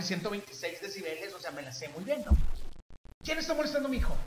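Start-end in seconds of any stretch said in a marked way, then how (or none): 3.2-4.2 high, carrying call to the room; retold challenge, pitched well up and projected; projected demand. Father calling out whoever bullies his son, projected demand. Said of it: "soy gritador profesional".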